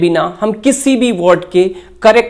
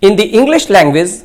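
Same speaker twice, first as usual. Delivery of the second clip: slow dictation; much slower than usual. Acted. Teacher dictating definition slowly.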